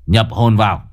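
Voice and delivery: low, fast, taunting exorcist; mocking summons. Cậu Tẩy summoning the ghost, low and scornful. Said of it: "Cậu mở mắt nhếch mép".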